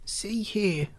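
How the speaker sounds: put-on high, thin old man's interjection; indignant old man. A narrator's reading. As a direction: demand attention in a reedy old voice. Old man voiced by narrator.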